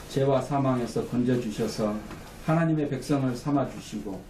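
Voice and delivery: measured pastoral prayer in even phrases; steady, level-toned praying; public prayer. Real, not acted. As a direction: lead the congregation in closing prayer. Leads the closing prayer.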